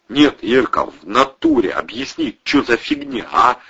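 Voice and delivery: pushy demand. Acted. Protasov pressing Ira for answers.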